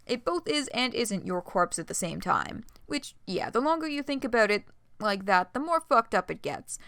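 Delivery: usual speaking voice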